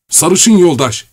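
desperate high cry; shouting. A narrator's reading. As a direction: cry out in exhaustion. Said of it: "diye haykırdı tükenmiş Korotkov".

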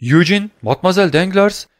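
high-pitched surprise, not really murmured; astonished. A narrator's reading. Fugitive recognizing the young woman, mildly astonished exclamation. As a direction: let astonishment lift the names. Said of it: "diye mırıldandı içindeki korkunun yerini şaşkınlık alan".

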